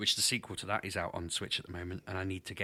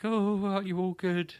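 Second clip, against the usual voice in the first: mock sweet voice; 9 semitones higher than usual. Retold quote in high voice.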